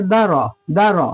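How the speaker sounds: दरा as two quick short syllables, da-ra; short vowels. Shown as a demonstration. Teacher modelling for students, दरा with short da and ra. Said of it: "इसलिए इसको कैसे पढ़ेंगे".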